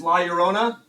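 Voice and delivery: Llorona in an American English accent; clumsy American-accented Spanish; poor Spanish accent. Real, not acted. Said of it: "offend all of you with my Spanish".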